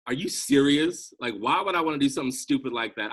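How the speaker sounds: retold scoffing sneer, quick on the second line; recalling her dismissive answer to a yoga invitation, mock caustic; caustic retort. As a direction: toss it off as if the idea is plainly stupid. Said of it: "I was probably that caustic".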